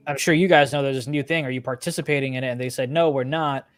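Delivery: usual speaking voice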